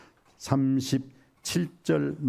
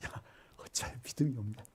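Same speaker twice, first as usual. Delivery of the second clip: soft, light-hearted chiding; smiling tease; 11 dB quieter than usual. Acted. Jesus chiding disciples as if with a smile, soft teasing. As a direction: tease them gently with a quiet smile. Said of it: "웃으면서 말했겠죠".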